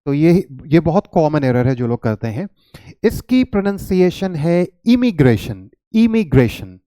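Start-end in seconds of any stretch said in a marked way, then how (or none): 4.9-6.8 इमिग्रेशन with a short "i" as in ink; immigration demonstrated. Shown as a demonstration. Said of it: "इमिग्रेशन आप ऐसे कहेंगे". (इमिग्रेशन का साफ़ उच्चारण)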